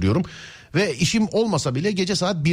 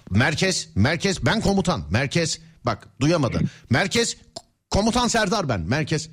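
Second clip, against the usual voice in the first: police radio; slower than usual. Pretend. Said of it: "İlk başta ciddi mesela, karşı tarafa sesini duyuramıyor".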